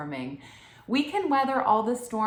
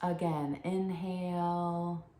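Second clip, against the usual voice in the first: soothing, slightly lowered voice with space between phrases; guided meditation. Real, not acted. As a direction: guide them gently into stillness, leaving long pauses.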